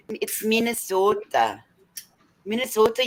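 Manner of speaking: mock Minnesota accent. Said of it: "the pronunciation is so weird".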